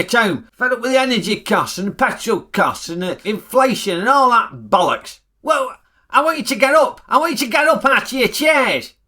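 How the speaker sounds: high, preacherly call to rise up; rabble-rousing speech. Acted. Ray urging viewers to the windows, rousing. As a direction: stir the crowd from the pulpit.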